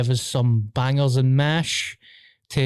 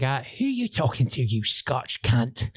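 put-on Cockney, slowing on the insult; Cockney gangster. Cockney gangster to Scottish cellmate, imitated Cockney threat. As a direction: imitate a Cockney hard man.

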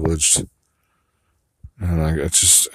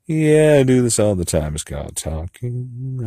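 shouted yeah; 6 semitones higher, 4 dB louder than usual. Shown as a demonstration. Practicing the line with a shouted yeah. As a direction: belt the yeah.

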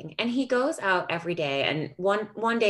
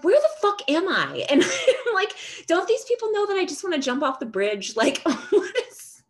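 high, louder laughing disbelief; 11 semitones higher, 3 dB louder than usual. Retold or imitated. Crying into a Christmas parade, high laughing disbelief. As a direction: laugh through tears at the absurd scene.

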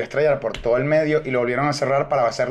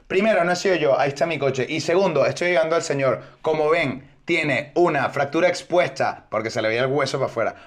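confident doctor act. Retold or imitated. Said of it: "yo entré como en un personaje".

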